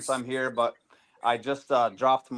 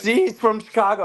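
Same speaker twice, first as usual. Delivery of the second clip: higher, louder mock wife voice; imitating wife; 10 semitones higher, 5 dB louder than usual. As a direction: tease him like his wife showing him off. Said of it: "ask me to say in front of people".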